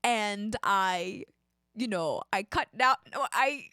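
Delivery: attempted Canadian accent, halting; mock Canadian accent. Would-be astronaut telling their story, mock Canadian. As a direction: try a Canadian accent, feeling your way.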